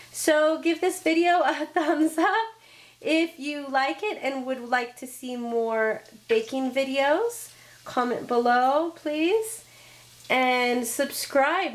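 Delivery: froggy, hoarse voice. Real, not acted. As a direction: speak through a frog in the throat. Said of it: "be sounding like a frog".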